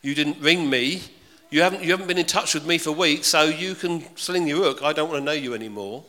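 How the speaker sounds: angry friend. Retold or imitated. Preacher voicing an offended friend, loud and cross. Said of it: "that sort of friend who says".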